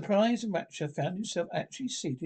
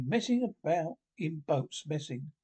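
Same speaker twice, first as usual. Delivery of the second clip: dreamy. Acted. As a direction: drift away lost in the thought. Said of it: "he went on dreamily".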